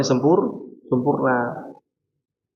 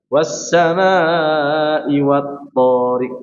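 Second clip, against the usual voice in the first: slow recitation; 2 semitones higher, much slower than usual. Shown as a demonstration. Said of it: "Dia dibaca".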